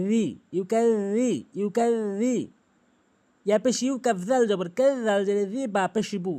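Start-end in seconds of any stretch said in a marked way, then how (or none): 0.1-2.4 slow ইউকাযযি, tongue tip against front teeth; correct articulation. Shown as a demonstration. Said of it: "দাঁতের আগাতে লাগাবেন". (ইউকাযযি, জিহ্বার আগা দাঁতে লাগিয়ে)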